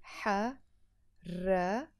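حركة said slowly, drawn out; slow teacher demo of حركة; slow model word. Shown as a demonstration. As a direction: sound out حركة slowly for the learner. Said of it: "let's write it here".

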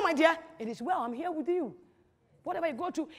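soft, soothing husband's words; comforting. Acted. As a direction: gently console an upset partner. Models comforting an upset wife.

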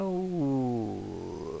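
drawn-out falling "ooh" while choosing; musing "ooh". Real, not acted. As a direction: draw out an "ooh" that slides downward.

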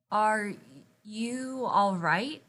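slow, hesitant asking; shy question. Acted. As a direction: ask shyly, drawing the words out. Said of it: "she asked shyly".

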